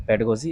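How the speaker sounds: "पेडागोजी" run together as PED-uh-go-jee; short unstressed middle "a" in "पेडागोजी"; taught pronunciation. Shown as a demonstration. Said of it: "इसका सही उच्चारण है".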